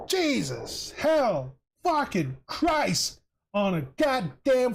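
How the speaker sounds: a real, worked-up angry rant. Real, not acted. Venting to viewers in a ranting mood, angry. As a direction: vent your fury, stretching out the curses. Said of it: "I've just been fucking on this ranting mood".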